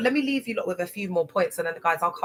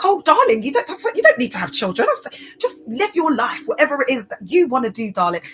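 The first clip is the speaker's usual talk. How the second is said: much higher, louder doting gush; gushing mum; 6 semitones higher, 6 dB louder than usual. Retold or imitated. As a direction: coo encouragement over the top. Mum gushing reply to daughter.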